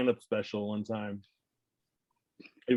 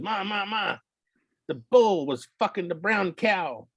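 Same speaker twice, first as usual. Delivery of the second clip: put-on higher, slowed little boy blurting it out; excited kid; 8 semitones higher, slower than usual. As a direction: play the kid bursting in with news. Child voiced in joke.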